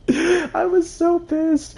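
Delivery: hammed-up fury. Telling viewers about the dream, in hammed-up outrage. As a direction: ham up how mad you were. Reliving her anger, exaggerated.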